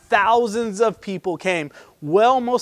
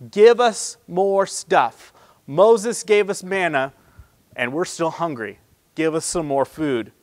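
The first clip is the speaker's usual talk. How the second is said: greedy demand; 3 dB louder than usual. Retold or imitated. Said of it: "They have the audacity to tell Jesus".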